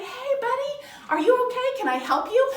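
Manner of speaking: high, upbeat offer to help; perky, caring check-in; friendly concern. Acted. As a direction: act out a kid cheering up a little brother. Kid kindly approaches fussing little brother.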